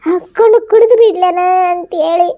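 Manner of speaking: tearful, despairing plea to her son; crying. Acted. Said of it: "ಅಳ್ಬೇಡ ಬೇವ ನೀನ್".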